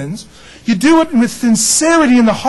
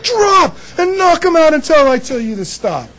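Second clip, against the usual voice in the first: drill sergeant order; 7 semitones higher than usual. Retold or imitated. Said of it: "He goes".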